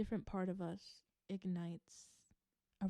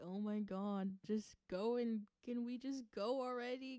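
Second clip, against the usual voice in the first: mildly bratty, impatient complaining; bratty impatience; 4 semitones higher than usual. Acted. Voicing their heart as it begs to go, mildly bratty. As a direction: lightly whine with restless impatience. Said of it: "bratty energy from their heart".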